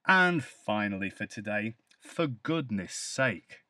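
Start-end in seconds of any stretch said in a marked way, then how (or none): 2.0-3.6 slow, exasperated "for goodness sake"; complaining tone. Shown as a demonstration. Teacher showing learners how a complaint sounds, slow and exasperated. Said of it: "the sound of my intonation and stress".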